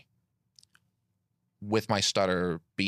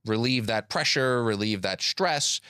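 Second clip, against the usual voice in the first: slow, stretched airflow speech; continuous phonation; slower than usual. Shown as a demonstration. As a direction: stretch each vowel on one unbroken breath. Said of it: "so I might do something like this".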